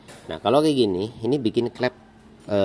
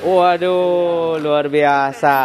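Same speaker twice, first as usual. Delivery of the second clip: excited; 7 semitones higher, 6 dB louder, much slower than usual. Real, not acted. Meeting a young fan.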